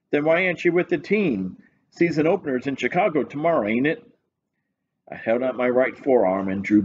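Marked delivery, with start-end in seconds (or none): 0.1-4.0 higher, blunt cop voice; a lazy, unbothered police sergeant; desk sergeant voice. Acted.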